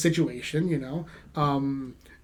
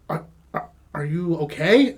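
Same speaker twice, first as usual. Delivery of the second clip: cautious. Retold or imitated. Teacher cautiously checks on fuming student.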